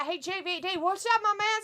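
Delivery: high-pitched, hyped hello; excited greeting. Pretend. Co-host greeting a viewer in chat, excited greeting.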